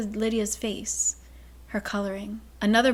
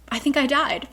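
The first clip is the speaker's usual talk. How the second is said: overwhelmed; 5 semitones higher, 4 dB louder than usual. Retold or imitated. Hunt overwhelmed by Bryce.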